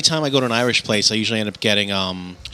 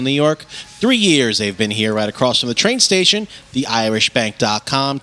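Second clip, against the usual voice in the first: podcast host's sponsor read, lingering on key phrases; slower than usual. Real, not acted. Host telling listeners about the Irish Bank venue, ad read. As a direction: announce the venue in measured promo phrases.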